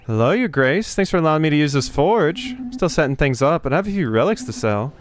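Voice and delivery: put-on light Southern Belle accent for a blacksmith; a sweet Southern Belle accent, lightly done. Blacksmith greets the queen at her forge, light Southern Belle accent. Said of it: "a Southern Belle accent".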